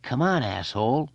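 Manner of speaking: high-pitched jeer; taunting bully voice; bullying goad. A narrator's reading. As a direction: goad him into a fight. Bully goads Eddie.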